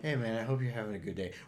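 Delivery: put-on, fake friendly and kind voice. Imitating a condescending group leader's fake friendliness: imitating fake friendliness. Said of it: "you know it's fake".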